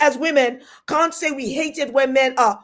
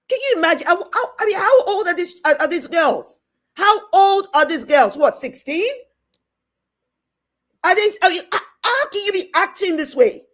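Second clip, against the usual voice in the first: higher-pitched, disbelieving questions; real shock; 4 semitones higher than usual. Real, not acted. Aunt reacting to girls acting this way, shocked. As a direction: stumble over the questions in genuine shock. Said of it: "I'm seriously shocked".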